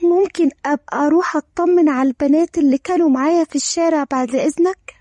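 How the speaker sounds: quick, mildly nervous request; a hurried, hesitant plea. Acted. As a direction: ask permission with some tension. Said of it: "دارين بتوتر".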